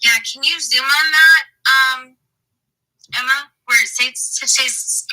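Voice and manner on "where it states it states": tripping over the words; stuttering. Real, not acted. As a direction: stumble and restart the phrase. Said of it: "oh, I'm stuttering".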